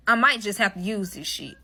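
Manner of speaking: inner thought. Retold or imitated. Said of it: "in the back of my head like".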